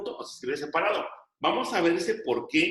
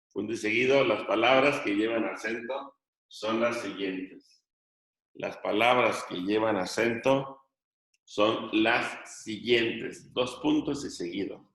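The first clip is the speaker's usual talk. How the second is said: slow, measured dictation, words drawn out; teacher dictating phrase by phrase; classroom dictation; 5 semitones lower than usual. Real, not acted. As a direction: dictate slowly so students can copy.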